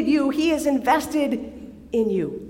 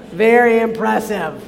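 sarcastic; 3 semitones lower, 4 dB louder than usual. Retold or imitated.

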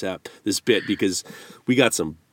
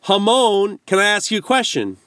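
imitating the sender; 9 semitones higher than usual. Reading the listener's pun for his stumbling cohost. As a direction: voice the joke line with a knowing lilt. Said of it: "He goes, he goes".

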